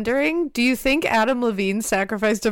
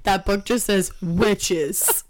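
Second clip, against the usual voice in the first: laughing; 3 semitones lower, much slower than usual. Real, not acted. Laughing at the silly witch book.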